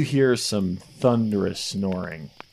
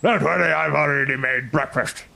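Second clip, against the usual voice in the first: booming wake-up call; 4 semitones higher than usual. Acted. Barking wake-up call to camp.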